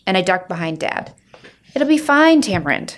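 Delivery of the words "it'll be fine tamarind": bright stepmother reassurance. Acted. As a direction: cheer her up brightly. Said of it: "says Chloe".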